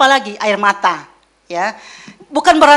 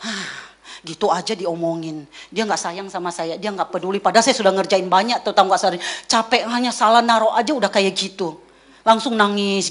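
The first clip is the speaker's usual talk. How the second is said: mock hurt wife; 5 semitones lower, 3 dB quieter than usual. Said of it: "istri tuh bisa sensi".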